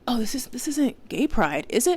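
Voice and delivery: whispered, then sharply rising mock question; lightly voiced clueless man; mocking imitation. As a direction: mimic his dumb question, mocking. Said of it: "has the nerve to ask me".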